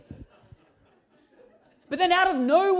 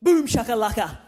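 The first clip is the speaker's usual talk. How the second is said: mock triumphant boast; 3 semitones lower, 4 dB louder than usual. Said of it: "the only thing that I could think to say was".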